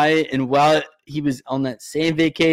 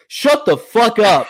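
much higher mock snap of an angry woman; mock angry lady; 8 semitones higher, 4 dB louder, slower than usual. Imitating the short lady who yelled at him, high mock snap. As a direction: impersonate her losing it. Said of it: "And she goes".

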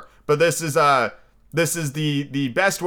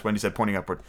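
usual speaking voice

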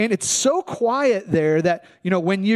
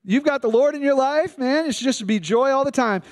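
higher, breezy mock cheer of a prosperity preacher; mocking false teacher; 4 semitones higher than usual. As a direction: parody the always-happy preacher, pitched up. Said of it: "will say to you, like".

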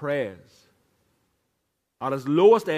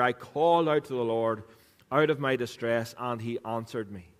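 scripture reading; 6 semitones lower, 4 dB quieter than usual. Shown as a demonstration. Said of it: "as we read this".

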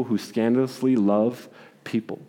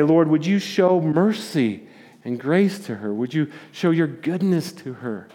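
prayer. Retold or imitated. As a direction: pray it gently, fading down. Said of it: "he begins to pray for Agnes".

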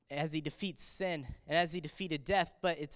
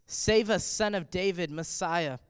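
crowd cry. Retold or imitated. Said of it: "is what the people cried out".

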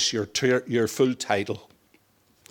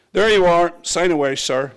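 smiling; 6 semitones higher, 4 dB louder than usual. Retold or imitated.

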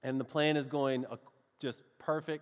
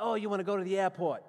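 Boston local; 4 semitones higher, faster than usual. Retold or imitated. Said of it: "here were the directions they gave me".

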